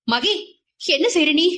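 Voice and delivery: mother-in-law aghast as she returns the thread, alarmed; alarmed plea. Acted. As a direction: cry out in shock at what she is doing. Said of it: "பதறி கண் கலங்கினார்".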